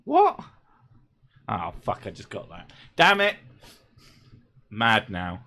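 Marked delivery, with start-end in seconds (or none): 0.0-0.4 sharp, much higher what; puzzled by the joke; startled squeak of confusion; surprised. Real, not acted. Reacting to a pun. 3.0-3.4 mock annoyance. Real, not acted. Annoyed at getting the pun.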